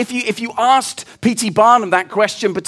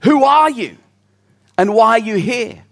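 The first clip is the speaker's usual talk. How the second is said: sentry calling out; 3 dB louder than usual. Acted. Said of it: "the guy calls out".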